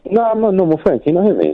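muffled phone line; through a tube. Real, not acted. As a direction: voice boxed in and muffled. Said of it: "you sound like you're talking through a toilet tube".

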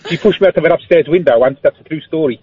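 put-on lingering South African accent. Caller telling of the window push, South African accent. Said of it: "You can stop doing the accent now".

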